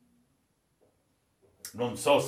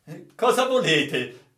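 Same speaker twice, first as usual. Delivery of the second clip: raised, slow questioning call; higher, louder demand; puzzled challenge; 5 semitones higher, 6 dB louder than usual. Acted. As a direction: ask it loud and drawn out. Sailor challenges raving officer.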